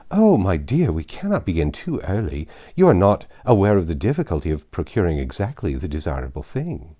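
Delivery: lightly voiced bossy society lady; Mrs Elton. Society lady lecturing a young friend, gushing.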